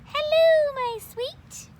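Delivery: high, loving coo to a pumpkin; sweet girl voice. Acted. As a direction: coo it like a doting little frog. Frogalina to pumpkin.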